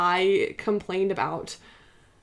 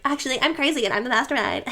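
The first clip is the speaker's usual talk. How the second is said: put-on annoying girl voice; 4 semitones higher than usual. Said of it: "this annoying girl voice".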